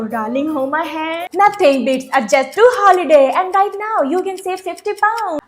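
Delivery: very slow, drawn-out reading; meme ad recital. Acted. Student completing the meme line to the teacher, very slowly. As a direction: stretch every word like the meme.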